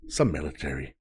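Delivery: dropped low, a touch of a deep announcer voice; mock deep movie-trailer voice. Real, not acted. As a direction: say it low and heavy. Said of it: "Ooh, I got a deep voice here".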